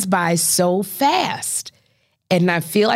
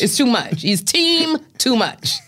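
higher-pitched, drawn-out exasperation on the last phrase; fed-up friend; 5 semitones higher, slower than usual. Acted. Woman warning her girlfriend off crying, mildly exasperated. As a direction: act mildly fed up, stretching the words. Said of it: "That's what my voice gonna sound like".

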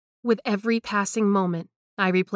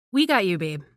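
reassuring; 4 dB louder than usual. Acted. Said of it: "Tara promised".

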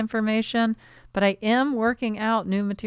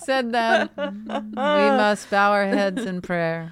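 pompous poet. Pretend. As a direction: announce it like a grand orator. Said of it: "went into this character".

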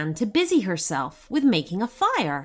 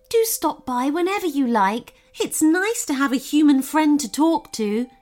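friendly goblin, pitched higher; a hint of a grateful goblin saying goodbye; lightly voiced goblin; 6 semitones higher than usual. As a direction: lightly play a welcoming goblin, lifted voice.

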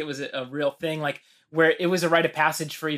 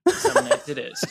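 higher, cracking up through the line; laughing. Retold or imitated. Retelling the anchor's punchline, breaking into laughter. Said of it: "And he goes".

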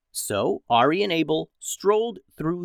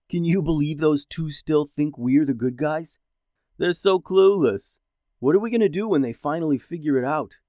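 put-on sneering, amused at the boys; mocking villain voice. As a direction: scoff at the clueless brothers. Another Red Cloak mocking the boys.

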